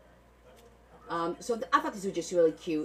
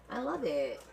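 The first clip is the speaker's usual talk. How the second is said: ordinary delivery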